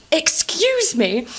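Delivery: slow, offended excuse me; drawn-out offended pause in the words; women disgusted at the brother. Retold or imitated.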